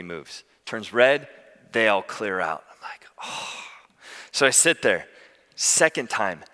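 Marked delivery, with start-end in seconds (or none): 3.2-3.6 soft, breath-out sigh of exasperation; acted-out weary sigh; exasperated sigh. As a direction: let out a quiet, fed-up sigh. Retold sigh as traffic blocks him.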